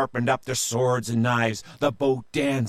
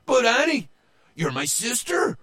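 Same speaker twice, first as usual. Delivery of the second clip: high-pitched protesting whine; hurt little brother's wail; blubbering whine; 12 semitones higher, 4 dB louder than usual. Acted. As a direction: whine at your sister in disbelief. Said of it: "Joe blubbered and he whined".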